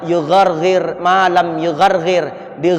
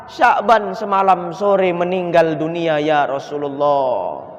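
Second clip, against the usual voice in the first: grieving widow; slower than usual. Acted. Widow tells of husband's death.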